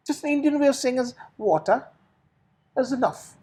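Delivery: water said the Indian way; Indian accent. Shown as a demonstration. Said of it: "pronounce the word W A T E R".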